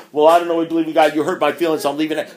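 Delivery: a hint of a sulky newcomer; mock crybaby. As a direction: rattle it off mocking a crybaby. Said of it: "thumb-sucking crybaby who comes up to me and says".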